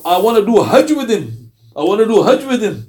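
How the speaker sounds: a spirit begging to stay; jinn voice. Retold or imitated. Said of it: "The voice came out of the man's mouth".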